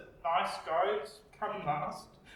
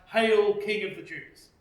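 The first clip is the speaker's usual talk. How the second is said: mock hail; 5 dB louder than usual. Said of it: "In mockery and sarcasm".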